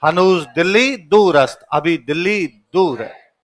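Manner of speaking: slow, each word weighed; teacher repeating the king's famous line slowly; slow emphatic repeat. Shown as a demonstration. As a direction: drive the proverb home slowly. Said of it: "क्या कहा?".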